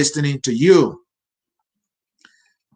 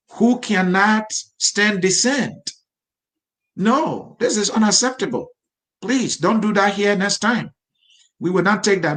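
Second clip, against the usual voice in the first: higher-pitched, deliberate reprimand; stern admonishing; 5 semitones higher than usual. Real, not acted. Host telling viewers invectives are unacceptable, stern reprimand. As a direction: lay down the rule, pitch raised.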